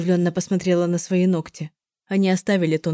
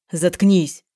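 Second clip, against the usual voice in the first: a short angry snarl, louder; growled order; 5 dB louder than usual. Acted. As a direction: bite the word off in anger. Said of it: "прорычал Кузьма". (сердито прорычать)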